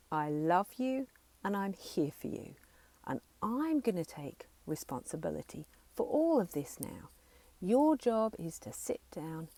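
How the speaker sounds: firm, authoritative and steady; with conviction. Shown as a demonstration. Parent part telling the child to rest, firm and steady. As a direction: stand tall and own every word. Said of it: "Say it with conviction. Say it with authority".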